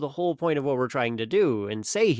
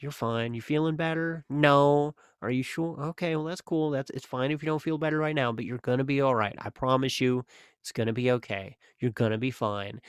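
soft reassurance; 4 dB quieter than usual. Retold or imitated. Comforting a crying young child.

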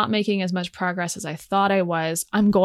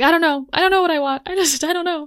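high, loud, frazzled not-knowing; a higher, louder flustered mumble of confusion; 10 semitones higher, 5 dB louder, faster than usual. Retold or imitated. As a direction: blurt it high and helpless. My brain was just, like, foggy.

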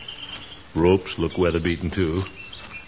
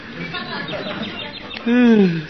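high chuckle. Acted. Lazy in hammock, chuckling.

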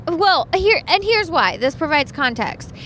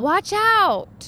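alarmed warning; 9 semitones higher than usual. Real, not acted. Near accident on highway.

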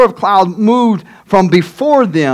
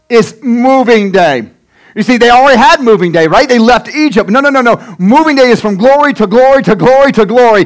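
impassioned preaching; 3 semitones higher, 4 dB louder than usual. Acted. Preaches at full force.

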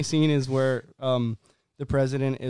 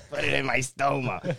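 laughing quote. Retold or imitated. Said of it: "repeating the quote".

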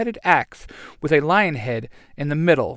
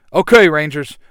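loud rallying call to the team; rallying yell; 2 semitones higher, 10 dB louder than usual. Acted. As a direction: shout the order with fire. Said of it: "Jason yells".

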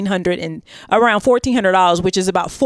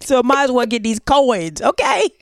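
higher, laughing greedy con woman; greedy scammer voice; 4 semitones higher than usual. Pretend. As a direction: play Bertha grabbing the coins. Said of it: "I understand Bertha's reasoning".

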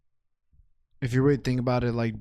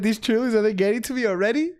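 laughing mock worry; 8 semitones higher, 4 dB louder than usual. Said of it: "I was like".

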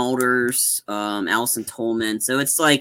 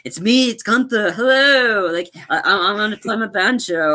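high, hammed-up movie assassin announcing himself; Arnold Schwarzenegger; 7 semitones higher than usual. Imitating the top assassin's entrance for a co-host, playful high mock voice. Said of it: "the top assassin is Schwarzenegger".

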